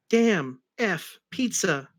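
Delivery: Tails cursing. Acted. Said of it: "said Tails to Sonic".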